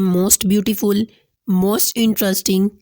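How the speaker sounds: unhurried teacher demonstration; slow example words. Shown as a demonstration. Teacher slowly modelling most-phrases for students. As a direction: stretch each word out slowly. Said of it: "उनके साथ हम most का इजाफा करते हैं".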